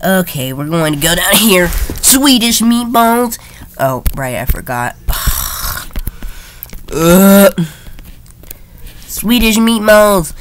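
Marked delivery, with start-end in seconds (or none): 1.7-3.4 slow drawn-out. Pretend. Mock grave pronouncement. 9.1-10.3 slow drawn-out. Pretend. Mock grave pronouncement.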